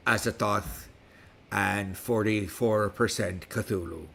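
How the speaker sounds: put-on West Country pirate accent throughout. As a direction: talk like a pirate all episode. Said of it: "with me speaking like a pirate".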